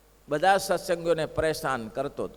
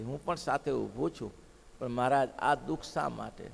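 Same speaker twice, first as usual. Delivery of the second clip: low, soft imitating of weeping; tearful plea; 5 semitones lower, 5 dB quieter than usual. Kunvarba pleading with Maharaj, lightly tearful and quiet. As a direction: plead softly, as through tears. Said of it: "અને ખૂબ રડ્યા".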